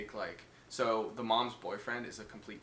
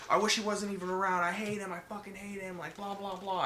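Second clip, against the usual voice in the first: put-on whiny kid; 8 semitones higher than usual. Andy complaining retold.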